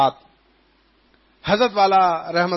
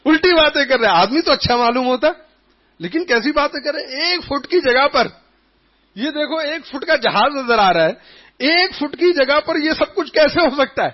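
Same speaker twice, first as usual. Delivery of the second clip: puzzled villager; 6 semitones higher than usual. Retold or imitated. Villager's puzzled complaint voiced.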